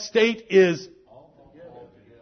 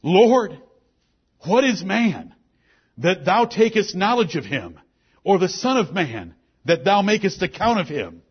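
scripture reading. Acted. Preacher reading psalm aloud to the congregation, measured and solemn. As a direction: read the verses with weight and pauses.

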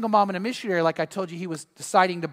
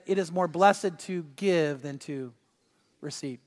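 lower, softer, slow scripture quote; quoting Jesus softly; 5 semitones lower, 5 dB quieter, slower than usual. Acted. Preacher quoting Jesus to congregation, soft and slow. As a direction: say it gently, letting it fade. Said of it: "He said".

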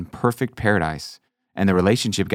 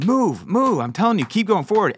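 impatient Balaam; 10 semitones higher than usual. Acted. Balaam hitting the donkey.

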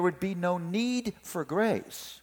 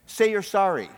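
stern mom; 4 semitones higher, 4 dB louder than usual. Acted. Mom orders son to apologize.

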